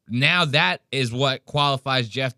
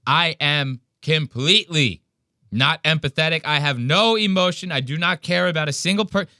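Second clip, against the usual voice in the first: mock cold confession; 5 semitones higher than usual. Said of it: "this is how he's making it sound".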